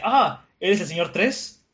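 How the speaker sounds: mock astonishment on seeing someone; surprised. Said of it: "se sorprende al ver a los gigantes".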